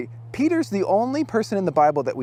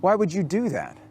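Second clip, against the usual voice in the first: higher, pleading frustration at Jesus; frustrated protest; 4 semitones higher than usual. Retold or imitated. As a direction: push back in disbelief. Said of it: "Peter was frustrated by that".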